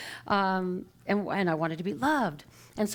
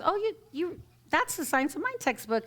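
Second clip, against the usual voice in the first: higher, eager acted quote; retold excitement; 6 semitones higher than usual. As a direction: mimic an excited acquaintance, pitched up. Retelling a stranger's excited remark.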